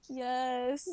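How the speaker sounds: drawn-out groaned reply; mock groan. Fallen cadet answers the instructor from the dirt, mock pained groan. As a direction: imitate a pained groan on the word. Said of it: "groan out".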